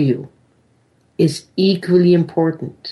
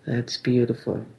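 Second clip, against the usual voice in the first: guided meditation. Acted. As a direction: gently guide them inward, unhurried.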